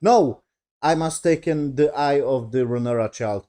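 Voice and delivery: retold aggressive demand. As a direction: imitate an angry queen's demand, only moderately heated. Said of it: "very aggressive".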